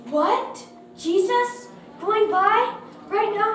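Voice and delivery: high, loud, amazed questions; crying out. A narrator's reading. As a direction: fire off questions in excited disbelief. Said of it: "he cried".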